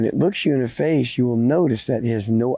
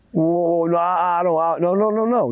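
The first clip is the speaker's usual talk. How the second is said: stammering, higher-pitched protest; flustered denial; 3 semitones higher than usual. Acted. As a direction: stumble over your words denying it. Caught boy stammers denials to man.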